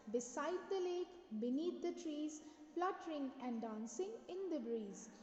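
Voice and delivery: expressive, swooping poetry recital; teacher's model poem recital; poem recitation. Shown as a demonstration. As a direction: recite the verse with measured, rising and falling emphasis. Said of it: "I'm just going to recite it for you".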